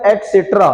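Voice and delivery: एटसेटरा with t before s; correct pronunciation. Shown as a demonstration. Teacher stating how etc is read, एटसेटरा as et-setra. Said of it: "इसको पढ़ते हैं".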